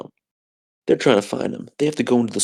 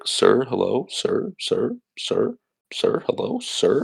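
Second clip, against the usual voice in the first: mock pleading; 2 semitones higher, 3 dB quieter, slower than usual. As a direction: pester him, rising to a squeak. Diner family pleading with Jake.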